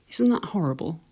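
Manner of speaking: conspiratorial whisper; hushed mock confession; whispered aside. Real, not acted. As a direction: lean in and whisper it.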